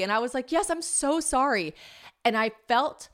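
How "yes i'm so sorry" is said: high, drawn-out mock apology; effusive and high-pitched, retold; gushing apology. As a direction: stretch out an over-eager sorry.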